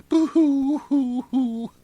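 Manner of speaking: high-pitched theatrical fake crying; hammed-up wail, sung out high and loud; mock boo-hoo. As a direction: put on exaggerated storybook sobbing. Reads Salome's mock weeping aloud.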